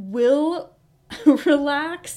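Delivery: talking through laughter. Describing the puppy's training while looking at her: laughing while talking. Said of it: "I'm laughing at her cute face right now".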